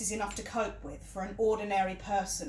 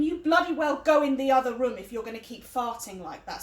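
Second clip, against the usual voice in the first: raised-voice scolding, short of a shout; retold yell; 5 dB louder than usual. Partner ordering him into the other room, mildly yelled. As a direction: retell your telling-off with some force. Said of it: "I yelled at him".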